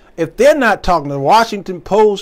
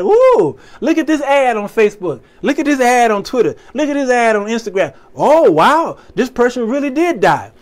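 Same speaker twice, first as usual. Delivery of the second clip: high, wide-eyed, gullible scroller, louder; gullible gasp; 6 semitones higher, 3 dB louder than usual. Retold or imitated. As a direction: gasp over each ad like a sucker. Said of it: "we just sitting there like".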